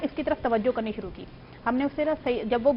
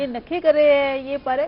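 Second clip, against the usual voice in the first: put-on lisping baby talk; 6 dB louder, slower than usual. Mother cooing lisped words at her little son. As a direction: coo it like doting on a baby. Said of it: "लाड में तोतला बोलते हैं".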